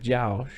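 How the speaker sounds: "Josh" drifting toward "Jow"; Southern-y vowel. Shown as a demonstration. Showing where the name is heading, "Josh" with a Southern-y ow glide. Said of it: "like, Southern-y".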